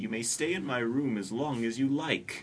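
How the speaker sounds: lightly acted story heroine; Anne's character voice. Voicing Anne in story reading.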